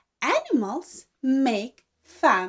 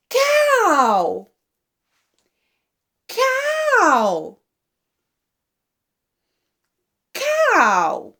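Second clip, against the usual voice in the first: high sing-song naming; 3 semitones higher, much slower than usual. Shown as a demonstration. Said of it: "What sound does the cow make".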